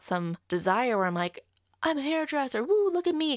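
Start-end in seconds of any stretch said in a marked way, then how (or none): 1.8-3.4 high, hammed-up show-off cheer; mock enthusiasm. Mocking hairdressers who love the job, hammed-up excitement. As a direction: whoop it up like a self-satisfied hairdresser. Mocks proud, showy hairdresser.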